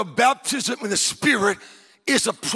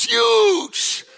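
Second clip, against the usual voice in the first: awed; 5 semitones higher than usual. Real, not acted. Awed by the first-class seat.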